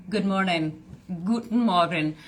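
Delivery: light mock German accent on Guten Morgen; German greeting. Greeting Stephanie in playful mock German. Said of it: "Your accent is off".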